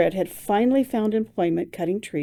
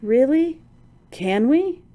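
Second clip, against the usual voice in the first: incredulous; 6 semitones higher, 3 dB louder, slower than usual. Acted. Incredulous friend.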